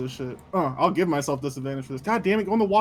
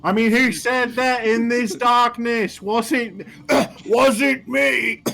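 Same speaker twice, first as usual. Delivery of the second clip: mock innocent denial; 7 semitones higher, 6 dB louder, much slower than usual. Denying he spoke in darkness.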